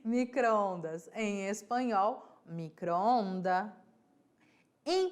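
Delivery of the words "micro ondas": careful retry. Shown as a demonstration. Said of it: "quase que não sai".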